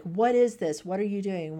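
被惹恼的质问; upset demanding. Retold or imitated. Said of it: "is really upset and is like".

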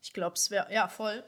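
kurz vorm Niesen; Niesen unterdrücken. Real, not acted. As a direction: gegen ein Niesen ansprechen. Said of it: "Moment, das Niesen". (mit einem Niesen kämpfend)

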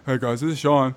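lightly put-on host greeting; trying out an impersonated podcast host voice; Sean. Shown as a demonstration. Stand-in showing friends the host's voice, light impression. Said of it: "I'm trying to get his voice down".

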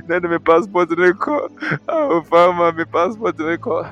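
mock complaining. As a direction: imitate someone pleading their grievances. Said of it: "You are complaining".

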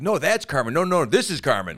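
high, loud imitated argument; mock squabble. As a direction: act out rival fans contradicting each other. Voicing two fan groups arguing.

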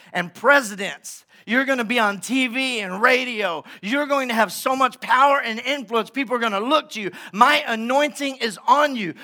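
lightly voiced divine proclamation; a preacher's take on God anointing someone. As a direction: commission him grandly, phrase by phrase. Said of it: "and he says".

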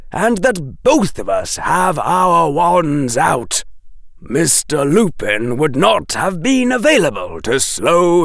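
a dry professor correcting the rescuer; Quirrell lecturing. Acted.

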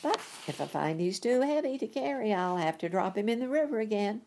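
lightly high stork. Acted. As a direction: warn quickly as the bird. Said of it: "said the stork".

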